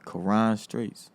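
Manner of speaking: Quran Streets said slowly, Quran as ko-RAHN; slow Quran Streets, stress on Quran's second syllable; name demonstration. Shown as a demonstration. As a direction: draw out Quran Streets as a model. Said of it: "So I'm say it one more time".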